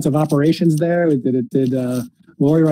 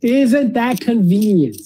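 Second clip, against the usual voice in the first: slow, pointed and higher, dripping irony; sarcastic; 6 semitones higher, slower than usual. Real, not acted. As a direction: lean on it like it's obviously rigged. Pointed remark on police tactics.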